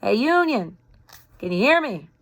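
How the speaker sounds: soft southern drawl called across the river; a Southern soldier calling low in a drawl; a hint of Southern drawl. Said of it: "low in a soft southern drawl".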